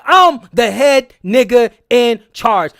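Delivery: slow, commanding mock of a man in charge; lightly voiced boss, drawn out and in control; authoritative head servant. Vlogger imitates Stephen in the library, slow and commanding. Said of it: "He's talking with authority".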